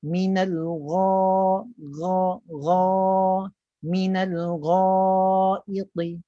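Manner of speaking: long, held GHA with the lips left neutral; relaxed lips. Shown as a demonstration. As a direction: raise only the tongue root for gha, lips unrounded. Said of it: "Bibir tu kekal macam biasa". (gha panjang, bibir kekal biasa, pangkal lidah tinggi)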